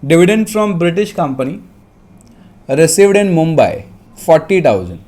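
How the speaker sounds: measured dictation with pauses; dictating. Real, not acted. Teacher dictating a question to students, dictation voice. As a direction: dictate phrase by phrase. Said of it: "फिर से बोलता हूँ".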